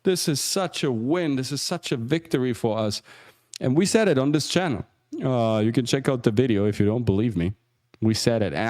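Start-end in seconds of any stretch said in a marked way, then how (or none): 0.0-3.0 higher-pitched, mildly gushing imitation; lightly mocked celebration; mock euphoria. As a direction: imitate overjoyed supporters without raising the volume. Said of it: "so euphorically".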